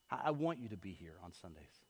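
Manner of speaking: soft, earnest plea; quiet heartfelt wish for them to come; sincere invitation. Shown as a demonstration. Pastor tells the church he wants them there. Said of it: "Do you hear the difference?".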